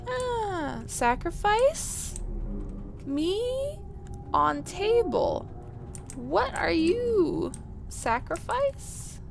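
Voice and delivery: caveman speak. Pretend. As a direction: talk like a dim brute. Caveman voicing game creatures.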